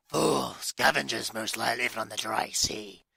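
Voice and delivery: mild attempt at a Scottish accent. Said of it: "I sound Scottish".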